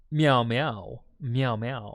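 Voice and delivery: cat meows. Pretend. Meowing at the cat.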